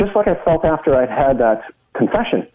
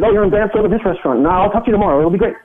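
imitating an eager, grateful client in a higher voice; so thankful; 7 semitones higher, faster than usual. Relieved client reassuring the man who forgave him, thankful and eager. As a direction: gush helpfully, pitched up all through. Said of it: "he was so thankful".

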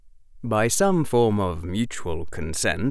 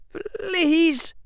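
faltering plea. A narrator's reading. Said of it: "his voice faltering".

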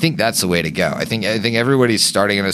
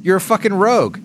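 mocking voice; 13 semitones higher, much faster than usual. Mocking a rogue player.

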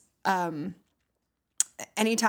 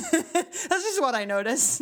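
smiling voice; 4 semitones higher than usual. Real, not acted. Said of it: "I notice that I'm smiling right now".

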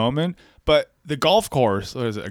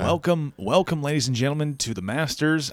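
golf commentator voice. Pretend. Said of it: "What voice would you call this?".

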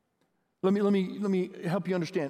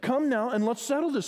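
raised, gentle invitation; inviting; 6 semitones higher than usual. Shown as a demonstration. Pastor shows congregation God's gentle, inviting tone. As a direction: invite them warmly to reconcile. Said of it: "He's not saying, he's saying".

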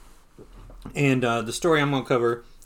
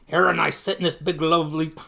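shaky-footed stab at Scottish, higher pitched; attempted Scottish accent; 4 semitones higher, 5 dB louder than usual. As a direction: try a Scottish miser's voice, unsure of the accent. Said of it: "is that Scottish?".

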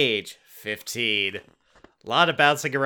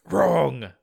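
announcing; 5 semitones higher, 4 dB louder than usual. Acted. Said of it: "the alien announces".

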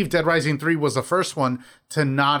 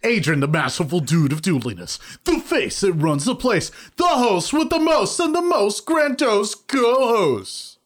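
hype announcer; 4 semitones higher than usual. Acted. Hype-man self introduction.

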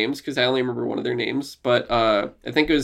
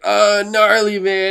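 higher-pitched imitation of a cartoon dude dog; lightly voiced surfer-talking dog; animated dog; 7 semitones higher, slower than usual. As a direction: pitch it up like a laid-back cartoon mascot. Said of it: "he literally talked like this".

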